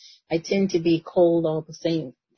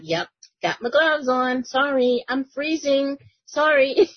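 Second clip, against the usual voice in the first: higher, bashful sorry-not-sorry voice; sheepish apology; 8 semitones higher than usual. Retold or imitated. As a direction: apologize playfully while shrugging it off. Retelling what he said at work.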